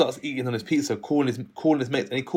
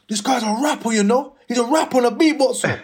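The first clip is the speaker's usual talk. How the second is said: higher, louder hype voice; ringleader's announcement; 10 semitones higher, 5 dB louder than usual. Retold or imitated. Ringleader vouching to his gang, a loud high hype. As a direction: sell him to the crew.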